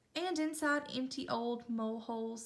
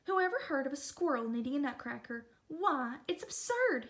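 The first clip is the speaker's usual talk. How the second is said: scolding. Acted. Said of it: "his mother scolded".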